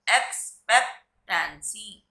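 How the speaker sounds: slow dictation. Shown as a demonstration. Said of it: "slow repeat for class".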